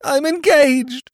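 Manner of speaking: slow, high groaning wail; groaned. A narrator's reading. Drever confessing engagement to Jimmy, slow groaning wail. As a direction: groan it like doom. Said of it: "groaned his lordship".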